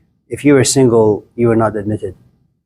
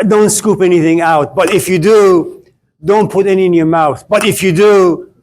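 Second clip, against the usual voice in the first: each warning climbs higher, building to a sing-song; escalating warnings; 4 semitones higher than usual. Acted. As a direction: pile on the don'ts, getting higher and more worked up each time. Escalating list of household prohibitions.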